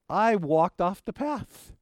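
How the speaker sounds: slow, drawn-out reveal of "I walked off the path"; slow dramatic reveal. Retold or imitated. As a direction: let "I walked off the path" land slowly, building suspense.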